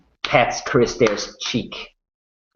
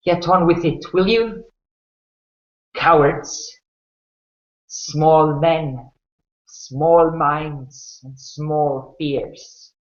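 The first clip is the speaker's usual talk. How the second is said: sharp, scornful challenge to the soldiers; defiant old woman; 4 semitones higher, slower than usual. Acted. Old woman taunting her executioners, defiant scorn. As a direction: spit contempt at them, then slow down. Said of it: "And she says, looking at the soldiers".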